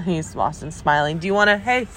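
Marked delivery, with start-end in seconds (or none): 1.2-1.9 coaxing. Real, not acted. Coaxing her son to greet.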